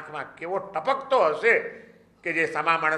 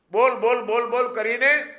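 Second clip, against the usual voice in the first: insistent repetition; 8 semitones higher, 4 dB louder than usual. Retold or imitated. Repeated preaching, throat drying.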